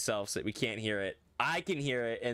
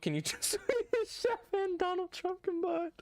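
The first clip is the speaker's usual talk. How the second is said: laughing. Real, not acted. Laughing at the impression request.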